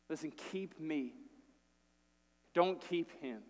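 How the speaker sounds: quiet, earnest begging; soft plea. Retold or imitated. Judah begging Joseph to keep him instead, quiet plea. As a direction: offer yourself in a hush.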